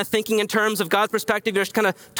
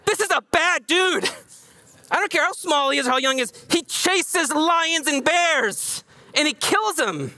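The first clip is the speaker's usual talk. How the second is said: awed; 8 semitones higher than usual. Real, not acted. Preacher marveling at David.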